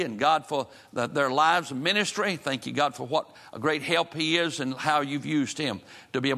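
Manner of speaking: pastoral prayer. Real, not acted. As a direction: pray over the congregation, earnest and steady. Pastor leads congregation in prayer.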